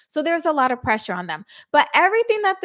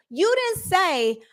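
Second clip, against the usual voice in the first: slow, deliberate correction; slow emphatic; 7 semitones higher, slower than usual. Real, not acted. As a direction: spell it out slowly. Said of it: "slow emphatic correction".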